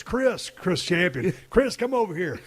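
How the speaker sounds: imitating a booker's summons; calling someone over. Acted booker summons another wrestler.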